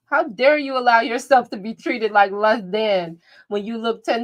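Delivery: worked-up telling-off on B Taylor's behalf; indignant scolding. Pretend. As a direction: pile up reproaches in mock outrage. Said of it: "I'm mad for B Taylor".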